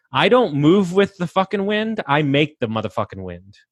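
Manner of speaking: emphatic, high-pitched start dropping at the end; worked up, punching the swear words; fired up. Real, not acted. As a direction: declare it with fired-up conviction. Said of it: "I'm getting fired up".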